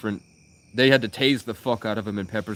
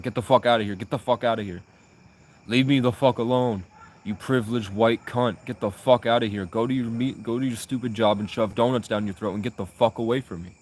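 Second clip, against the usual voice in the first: imitating a territorial homeless guy barking at passersby; hammed-up barking rant; mock homeless rant. Homeless man cursing out a passerby, mock angry rant. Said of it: "they start barking and cawing like crows".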